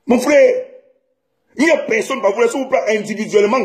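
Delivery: angry outburst. Real, not acted. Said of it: "C'est la colère".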